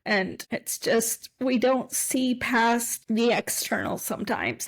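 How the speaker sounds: choked up and caught off guard by feeling; getting emotional. Real, not acted. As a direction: voice rising high as tears come on. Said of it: "Gosh, I'm getting emotional".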